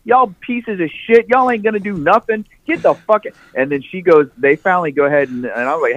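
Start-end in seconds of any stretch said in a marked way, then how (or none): 0.0-3.2 hammed-up cashier throwing them out; tough cashier lady. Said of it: "cash register chick's pushing".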